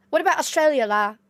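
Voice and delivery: mock Singlish with la tag; Singaporean accent. Shown as a demonstration. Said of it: "talking like this, la".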